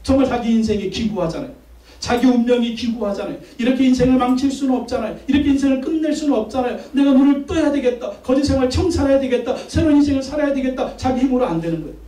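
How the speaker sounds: driving, insistent pulpit cadence; impassioned preaching. Real, not acted. Pastor voices resolve to start life anew, impassioned preaching. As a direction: press each phrase with rising urgency. Preaches the blind man's plight.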